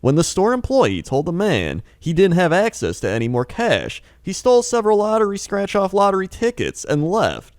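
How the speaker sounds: mock news anchor read; newscaster voice. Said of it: "It's not a newscaster voice".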